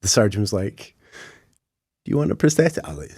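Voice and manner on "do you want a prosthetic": breathy, half-whispered, pitched-up offer; hushed question. Retold or imitated. Surgeon offering a prosthetic, hushed question. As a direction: ask it delicately, nearly whispering.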